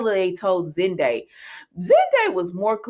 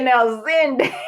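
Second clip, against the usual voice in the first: laughing scolding; 7 semitones higher, slower than usual. Real, not acted. Scolding Zende on screen, laughing.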